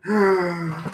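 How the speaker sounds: drawn-out intake of breath; gasp. Real, not acted. Streamer reacting to a viewer's voice acting offer, gasp. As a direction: gasp before answering.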